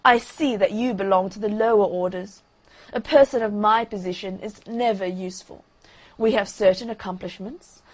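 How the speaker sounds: a touch of lofty disdain; understated haughty lecture. Acted. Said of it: "in a very haughty tone of voice".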